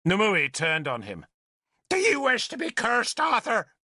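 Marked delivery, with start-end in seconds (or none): 1.9-3.7 high, fierce question; outraged challenge. A narrator's reading. Nimue threatening Arthur with a curse, outraged challenge. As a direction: hurl it at him as a threat.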